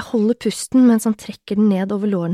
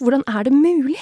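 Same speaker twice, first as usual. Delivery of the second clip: raised, louder amazed question; amazed thought; 5 semitones higher, 5 dB louder than usual. A narrator's reading. Woman thinking to herself, amazed and heightened. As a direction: wonder it in heightened disbelief. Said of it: "tenker jeg".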